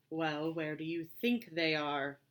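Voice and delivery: slow, dry, drawn-out cat voice; bone-dry and unhurried. Acted. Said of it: "dry as a dead fly".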